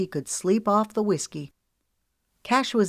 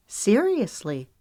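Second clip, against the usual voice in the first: miffed; 4 semitones higher, slower than usual. Acted. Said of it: "sounding miffed".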